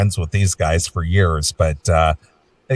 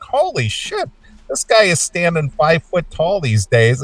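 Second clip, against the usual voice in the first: hoog uitgeroepen verbazing; holy shit reaction; 5 semitones higher than usual. Retold or imitated. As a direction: act amazed, pitch jumping up. Mock reaction to singer echoing.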